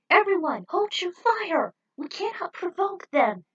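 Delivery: high, loud urgent order; commanding shout. Acted. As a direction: bark the order to hold fire. Leader orders the team.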